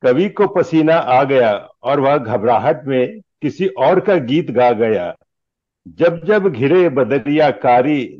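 measured lines with lilting stage delivery; declaimed Hindi humorous verse; comic poem recitation. Acted. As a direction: recite it like verse at a poets' gathering.

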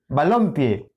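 balompié with the middle syllable LOM made strongest; stress on LOM. Shown as a demonstration. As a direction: test balompié by leaning on LOM. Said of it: "¿Y cuál suena más?". (balompié, cargando la voz en lom)

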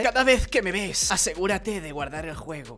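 slow, lightly voiced game narrator; put-on narrator voice. Narrator tells the player to save, slow put-on voice. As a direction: read it slowly as a makeshift narrator. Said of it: "¿Qué voz le pongo al narrador?".

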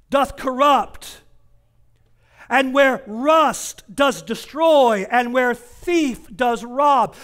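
slow, measured King James cadence; slow scripture quote. Acted. Preacher quoting God's warning to the congregation, slow. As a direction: draw out each clause like scripture.

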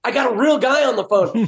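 imitated excitement. Parts clerk thinking he has a real customer, imitated excitement. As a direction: lightly act out an eager salesman. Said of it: "He'd get all excited, like".

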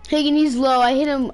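loud, high callout; raging gamer. Real, not acted. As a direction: shout it to your teammate. Calling out during fight.

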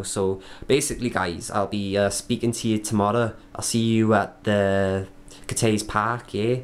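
a shaky attempt at a Scottish accent, slowed down; hammed-up Scottish accent practice; bad Scottish accent. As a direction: try out a Scottish accent and don't quite land it. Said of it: "God, that's a shocking Scottish accent".

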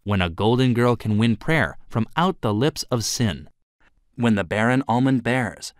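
measured verse recitation, line by line; reciting verse. A narrator's reading. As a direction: recite it from memory, pausing after each line. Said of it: "she recited the verse from heart".

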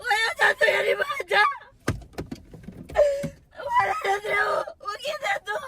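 sobbing, yelling him away; hurt, crying outburst; crying shout. Real, not acted. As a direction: push him off through tears. Girlfriend sobbing, telling him to go.

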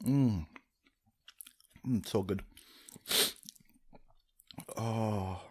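ordinary talk, nothing marked

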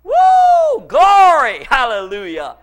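high whoop into loud "Glory"; ecstatic shout. Real, not acted. Preacher erupts in praise over the victory, whooping.

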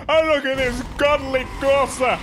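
lightly voiced proud advert announcer; a hint of a pompous TV commercial; mock car advert voice. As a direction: sell it like a patriotic car ad, tongue in cheek. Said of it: "That's what they advertise Corsa as".

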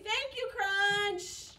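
slow, drawn-out thanks; slow thank you. Shown as a demonstration. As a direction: thank the dinosaur slowly and kindly.

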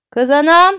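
put-on high, loud upset old woman; complaining granny. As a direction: wail a grievance to the boy's mother. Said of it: "Gözleri dolan koca nine ... şikayete geldi". (şikayete gelmiş, bağıran koca nine)

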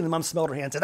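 usual speaking voice

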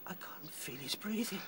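hushed, voiceless dread; fearful whisper. Acted. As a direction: whisper over a still body. Fearing friend is dead.

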